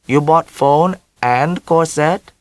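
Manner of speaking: put-on mother in a heavy Vietnamese accent, high. A narrator's reading.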